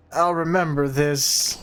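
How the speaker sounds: grudging beaten villain line. Acted. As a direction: mutter it like a defeated thug. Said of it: "I should have done a nerdier voice".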